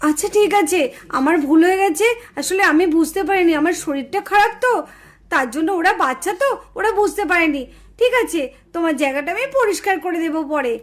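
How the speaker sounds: low, subdued unwell voice; apologetic sick neighbour. Acted. Unwell neighbour apologises for her cows. (অসুস্থ প্রতিবেশীর নিচু, নরম গলায় ক্ষমা চাওয়া)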